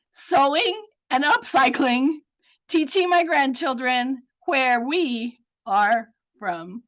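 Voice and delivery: measured, heartfelt poem recital; poem reading. Acted. Storyteller reading her own poem to community, tender recital. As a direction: read each line like a personal memory.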